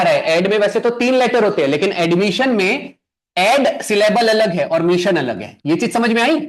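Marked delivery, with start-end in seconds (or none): 3.4-5.6 "ऐड" and "मिशन" set apart, slowly; syllables separated. Shown as a demonstration. Teacher splitting admission for students, syllables slowly separated. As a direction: say "ऐड" as one chunk, "मिशन" as another. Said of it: "दो syllables है".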